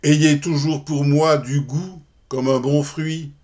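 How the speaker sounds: measured verse reading with pauses at line ends; poem recitation. Acted. Lover addressing his unlettered beloved in verse, poem recitation. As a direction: recite it as formal, rhymed love verse.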